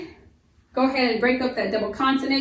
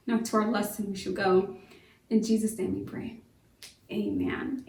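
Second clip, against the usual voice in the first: prayer. Acted. Leads class in rhymed prayer.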